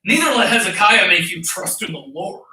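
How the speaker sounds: sneering, dismissive read of the quote; sarcastic. Retold or imitated. The Rabshakeh taunting Judah, arrogant and sarcastic. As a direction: roll your eyes as you say it. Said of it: "you can hear the sarcasm in his tone".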